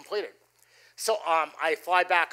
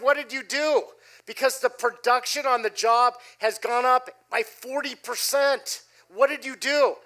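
amazed questioning; 4 semitones higher than usual. Retold or imitated. Amazed owner on the phone.

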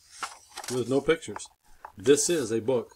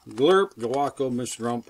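silly sound; 5 dB louder than usual. Acted. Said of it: "make silly sounds like".

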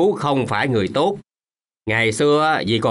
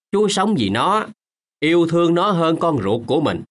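impassioned plea; 5 semitones higher than usual. Acted. Old man pleads emotionally.

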